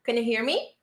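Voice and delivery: "can" reduced to "kn", voice rising on "me"; weak-form can. Shown as a demonstration. Teacher models the correct option for class, weak-form can. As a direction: swallow the vowel in "can", lift "me". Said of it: "the weak sound is the correct option".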